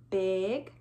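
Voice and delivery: low voice for bigness; big voice. Shown as a demonstration. Teacher contrasting opposites for children, in a big voice. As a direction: drop the word down low.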